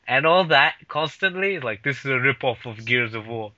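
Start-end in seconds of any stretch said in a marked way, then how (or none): 1.8-3.5 lightly imitated low-voiced friend; friend's deep voice. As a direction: drop the pitch to mimic a dismissive friend. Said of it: "I like the way you're putting his voice on".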